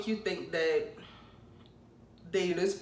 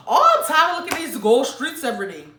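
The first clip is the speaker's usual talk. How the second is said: whiny Virgo; 6 semitones higher, 8 dB louder than usual. Pretend. Acting a complaining Virgo.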